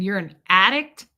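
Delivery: imitating his startled question, rising at the end; retold surprise. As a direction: echo his disbelief with a rising ending. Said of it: "his eyes popped out of his head".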